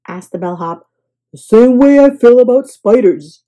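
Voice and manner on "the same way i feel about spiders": louder, wary reply; dismayed. A narrator's reading. Guest to bellhop, wary. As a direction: say it with dread. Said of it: "said Mister Snore".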